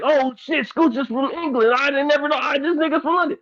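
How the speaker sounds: high-pitched, acted-out surprise; sudden disbelieving realization, hammed up; mock astonishment. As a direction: play the stunned listener, pitch jumping up. Acting out listeners' astonished discovery.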